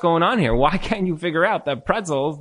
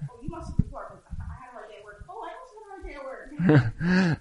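mock complaint; 9 semitones higher, 8 dB quieter than usual. Mocking a complaining spouse.

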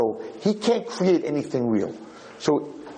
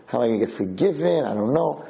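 hesitant inner doubt. Retold or imitated. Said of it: "you start thinking".

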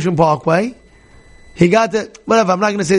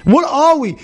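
higher, marvelling "what are we" of the humble Moses; 7 semitones higher than usual. Retold or imitated. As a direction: voice the humble leader in awe of his smallness. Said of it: "He's saying".

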